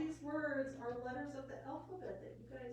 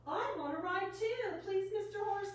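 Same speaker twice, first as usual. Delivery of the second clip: dog's voice; 7 semitones higher than usual. A narrator's reading. Reading the dog's line.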